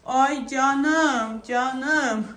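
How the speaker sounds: drawn-out motherly cooing; cooing endearment. Real, not acted. Mother to her fretting baby, cooing. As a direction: coo it slowly to soothe.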